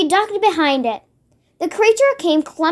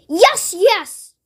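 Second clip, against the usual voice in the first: booming; 4 semitones higher than usual. A narrator's reading. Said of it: "boomed the Blood Blotter".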